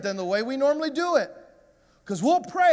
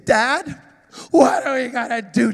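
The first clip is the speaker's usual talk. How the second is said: put-on worried child; 5 dB louder than usual. Scared son asking dad.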